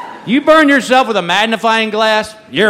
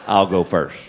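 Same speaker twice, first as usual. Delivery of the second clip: put-on cool boy showing off; 12 semitones lower than usual. Boy showing off to his buddy.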